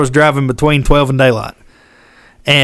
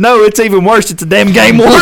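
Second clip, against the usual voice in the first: excited; 6 semitones higher, 4 dB louder than usual. Retold or imitated. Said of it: "I said".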